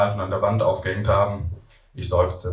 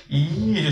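put-on children's yuck; 8 semitones higher than usual. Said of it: "schreien die Kinder".

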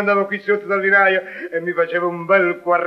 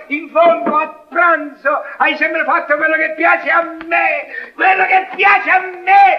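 shouting; 5 semitones higher than usual. Acted. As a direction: yell it in triumph. Husband yells in quarrel.

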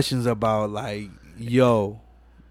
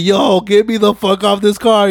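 higher, louder panicked mock plea; hammed-up panic, much higher and louder; scared shitless; 7 semitones higher, 6 dB louder than usual. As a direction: squeal it like a terrified passenger. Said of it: "Toretto is scared shitless".

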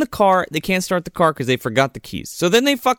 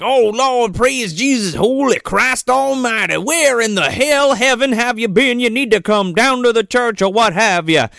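evangelical rant; 6 semitones higher than usual. Retold or imitated. Reverend ranting to Medea on the phone, high mock-evangelical fervour. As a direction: imitate a fired-up preacher on the phone. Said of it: "evangelical, like, rant on the phone".

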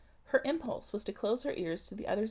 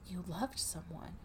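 softer and slow, barely voiced; hushed, slow, breathy question; breathed; 2 semitones lower, 7 dB quieter than usual. A narrator's reading. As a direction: breathe it out softly like a confession. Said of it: "she breathed".

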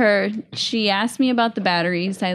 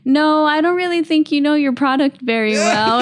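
retold indignant retort; 6 semitones higher, 5 dB louder than usual. Caller's retort in retold argument.

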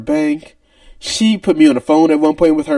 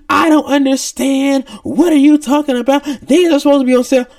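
higher mock-angry customer voice, not really yelling; imitating angry customer; 7 semitones higher than usual. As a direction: lightly play the irate shopper. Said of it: "She's screaming and hollering at me".

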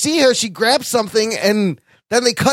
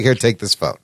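lower, sultry handing-over voice; lightly voiced femme fatale offering a phone; a hint of a seductive villain; mock Sharon Stone; 10 semitones lower than usual. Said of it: "she's like".

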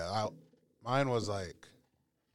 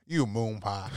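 mock insult; 5 dB louder, much slower than usual. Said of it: "That sounds so aggressive".

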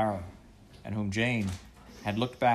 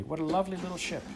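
put-on delighted child; 9 semitones higher, faster than usual. A narrator's reading. Cyril delighted at the ship.

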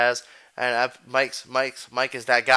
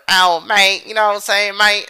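mock southern accent; 7 semitones higher, 8 dB louder than usual. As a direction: toss off an imitated southern accent with a grin. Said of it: "I love that southern accent shit".

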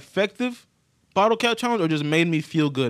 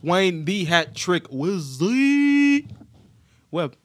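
slow, drawn-out hype name; grand announcer intro; much slower than usual. Pretend. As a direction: announce yourself like a champion.

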